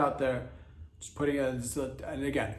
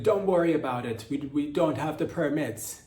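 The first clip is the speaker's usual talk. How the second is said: Sergio; 2 semitones higher, 4 dB louder than usual. Acted. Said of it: "Sergio's like".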